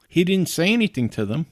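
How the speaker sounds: ordinary delivery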